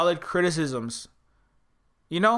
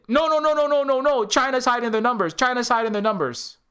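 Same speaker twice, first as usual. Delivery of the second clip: mock defensive outburst; 5 semitones higher than usual. American patriot shouting down covid criticism, mock defensive outburst. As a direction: bluster back like a caught-out patriot.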